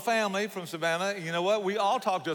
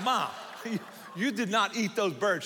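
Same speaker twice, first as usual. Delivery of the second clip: higher-pitched appalled son; joking incredulous protest to mom; mock disbelief; 4 semitones higher than usual. Son learns mother ate the birds, mock disbelief.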